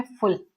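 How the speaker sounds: फुल set apart as a syllable on its own; separate final syllable. Shown as a demonstration. Teacher shows students the last chunk of the word, फुल on its own. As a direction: isolate फुल after a pause. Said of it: "तीन बार इसको तोड़ा गया".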